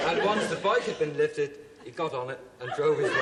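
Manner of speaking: laughing. Real, not acted. Contestant still laughing.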